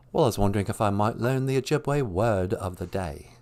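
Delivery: lightly voiced British rock star caller; a famous rock singer. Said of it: "Hello, rock star".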